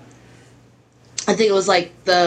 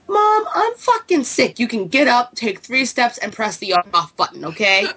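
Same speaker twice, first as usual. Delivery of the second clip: exasperated retort; 6 semitones higher than usual. Retold or imitated. Snapping at mom, sick.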